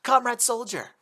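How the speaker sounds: high, put-on Russian accent; fake Russian accent. Kotori faking a Russian accent at Soviet soldiers. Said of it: "in the best accent she could muster".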